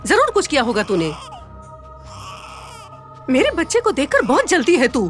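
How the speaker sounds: high, harsh scolding with a sob-like edge; angry berating. Acted. Stepmother demanding what the girl did to the baby, harsh high scolding.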